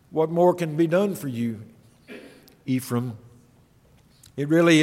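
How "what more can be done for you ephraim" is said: much softer, sinking sorrowful question; sorrowful hush. Acted. Preacher voicing God's heartbroken final question to Ephraim, quiet. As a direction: let it fall away to a grieving hush. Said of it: "as if God is saying to them".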